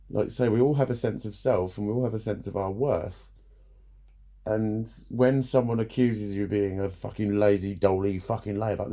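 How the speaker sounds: usual speaking voice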